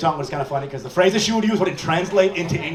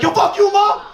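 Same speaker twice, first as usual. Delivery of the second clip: higher, louder mock outburst; angry yell at mom; 11 semitones higher, 4 dB louder than usual. Daughter yelling at mom after being hit, mock furious. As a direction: yell it up high like a furious teen. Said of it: "I'd be like".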